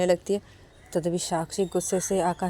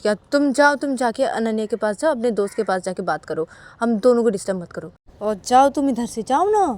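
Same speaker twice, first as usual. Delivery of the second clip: higher, louder shooing him off; irritated wife telling him to go away; annoyed wife; 4 semitones higher, 7 dB louder than usual. Acted. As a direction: Sakshi snaps at Akash to leave them alone, annoyed. Sakshi shooing Akash away.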